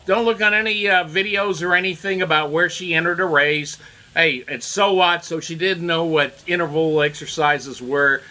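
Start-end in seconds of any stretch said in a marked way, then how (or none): 0.1-3.2 mock scolding media. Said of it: "the media would be opposed to it".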